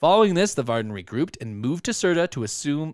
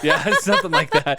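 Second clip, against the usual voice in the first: laughing; 8 semitones higher, 5 dB louder than usual. Real, not acted. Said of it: "old-timey newsreel".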